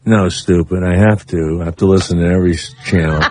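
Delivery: a hint of the dry chief engineer; imitating the engineer. Host mimicking the engineer scolding him, lightly deadpan. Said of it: "And he talks like this".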